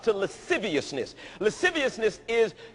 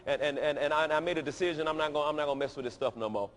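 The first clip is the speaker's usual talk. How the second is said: quoted new convert; 5 semitones lower, faster than usual. Retold or imitated. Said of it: "you told Bucky".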